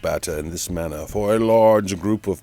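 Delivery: a hammed-up commentator with a lightly put-on foreign lilt; Chaz Leroy announcer. A fictional announcer narrating the trailer build, hammed-up play-by-play. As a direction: call every move like a pompous play-by-play man. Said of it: "a fictional friend of mine by the name of Chaz Leroy".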